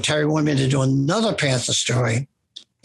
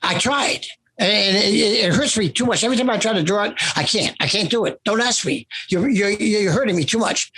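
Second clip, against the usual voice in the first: higher, distressed begging off; imitating a hurting friend, higher and pleading; pained pleading; 4 semitones higher than usual. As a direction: retell a friend's anguished refusal, voice raised. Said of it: "I said".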